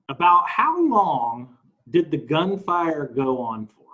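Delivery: slow, stretched-out question reading; read-aloud. Acted. Co-host reads out the next question, slow read-aloud. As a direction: read the question out slowly and deliberately.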